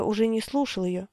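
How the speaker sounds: usual speaking voice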